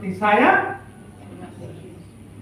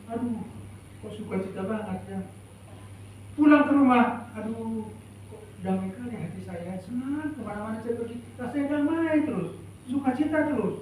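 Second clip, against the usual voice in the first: soft, dreamy voice of a happy believer, much softer; contented believer; 6 dB quieter than usual. Retold or imitated. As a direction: sigh it out as someone blissfully at peace. Believer voiced feeling joyful everywhere. (suara lembut orang yang bahagia dan damai)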